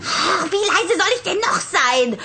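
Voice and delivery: high, exasperated protest; huffy, put-upon comeback; indignant retort. Acted. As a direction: protest at being shushed, pitch jumping up. Tess indignant at being hushed.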